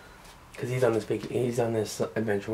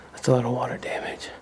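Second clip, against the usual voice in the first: whispering. Real, not acted. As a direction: keep it to a whisper. Exploring an abandoned house.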